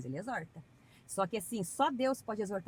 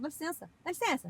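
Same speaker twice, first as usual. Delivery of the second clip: polite to dog; 8 semitones higher than usual. Retold or imitated. Politely telling the dog to move.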